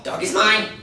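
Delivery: put-on thick Asian accent. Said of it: "speaks with a loud, thick Asian accent".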